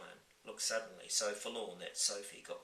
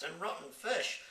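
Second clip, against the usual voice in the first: put-on disgusted young girl; 9 semitones higher, 3 dB louder than usual. Sophie disgusted.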